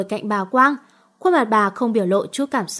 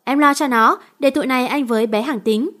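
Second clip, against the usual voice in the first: shouting. Acted. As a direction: yell it over the brawl. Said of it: "Hoàng hét lớn".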